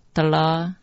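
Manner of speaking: 德拉 run together as "dara"; mantra pronunciation. Shown as a demonstration. Teacher showing how two characters are read, pronunciation demo. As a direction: demonstrate 德拉 with a long final "la". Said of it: "陀螺两个字念成".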